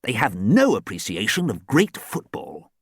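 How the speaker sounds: lightly voiced old gentleman; a hint of a fussy old coach. Archie the ghost coach speaks.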